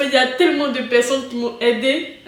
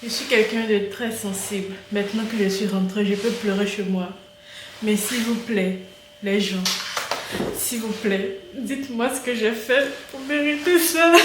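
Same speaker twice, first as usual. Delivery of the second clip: soft pleading; 4 semitones lower, 7 dB quieter than usual. Real, not acted. Pleading softly, worn out.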